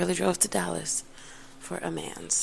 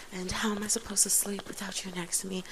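whisper; 3 semitones higher, 5 dB quieter than usual. Retold or imitated. Whispered retold text.

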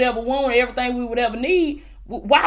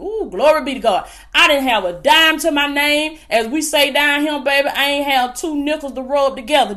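lively, driving preacher's delivery; fervent preaching; 4 dB louder than usual. Real, not acted. Preacher rallying online viewers to faith, fervent preaching. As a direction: preach it with mounting conviction.

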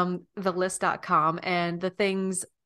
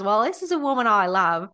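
Nicole Kidman voice; 6 dB louder than usual. Retold or imitated. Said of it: "continue with Nicole's voice".

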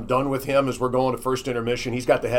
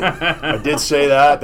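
laughing; 3 semitones higher, 6 dB louder, much slower than usual. Real, not acted. Laughing at own blooper.

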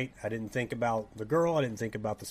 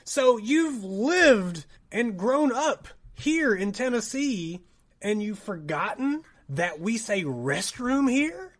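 high, drawn-out mock disbelief; incredulous; 7 semitones higher, 4 dB louder, slower than usual. Friend confronts a Tennessee native faking Britishness, acted incredulity. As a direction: stretch out the challenge as if astounded. Retold incredulous challenge to fake Brit.

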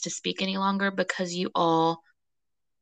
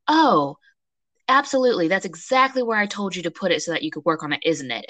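sarcastic; 4 dB louder than usual. Retold or imitated. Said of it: "I was like".

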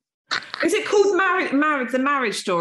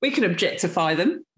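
accidental Australian accent; 2 semitones lower than usual. Real, not acted. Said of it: "I sounded Australian then".

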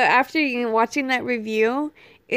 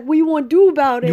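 retold challenge; 2 semitones higher, 6 dB louder, faster than usual. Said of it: "he's like".

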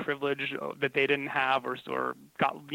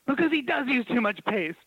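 indignant teacher; 8 semitones higher than usual. Retold or imitated. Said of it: "And she goes".

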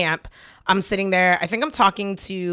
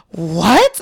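acted gasp, then a loud "what?"; shocked gasp; 3 semitones higher, 5 dB louder than usual. Imitating Scott's reaction to the answer, mock shocked gasp. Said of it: "Scott looks at me like".

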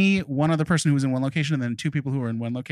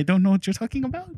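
mock French accent; 5 semitones higher, faster than usual. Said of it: "English in a French accent".

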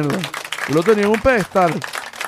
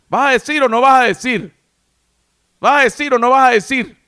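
impatient demand; 6 semitones higher, 4 dB louder than usual. Real, not acted. Pressing cohost to finish story.

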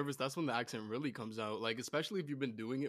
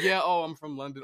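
louder put-on British accent; 3 semitones higher, 9 dB louder than usual. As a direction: pretend to be a Londoner, loudly. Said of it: "just be British".

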